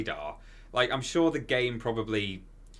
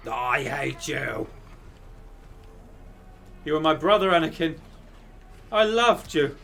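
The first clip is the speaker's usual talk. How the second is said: a hammed-up heartbroken Jedi; Obi-Wan impression; 6 semitones higher, 6 dB louder than usual. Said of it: "your Anakin and Obi-Wan impression again".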